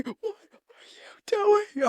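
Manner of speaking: slow, high whispered sergeant threat; mock drill sergeant whisper; menacing whisper. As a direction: whisper it slowly like a scary sergeant. Sergeant hissing at recruit.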